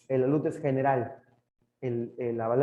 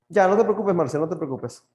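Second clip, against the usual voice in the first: louder, calling out to calm a student; raised voice telling a student not to worry; loud reassurance; 3 semitones higher, 6 dB louder than usual. Real, not acted. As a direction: call out so she stops worrying.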